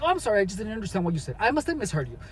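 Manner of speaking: quick, breezy, offhand apology; feigned carelessness. Shown as a demonstration. Brushing off a rude customer, quick careless apology. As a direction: toss off the apology like it doesn't matter. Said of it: "dress it up as l-, carelessness and be like".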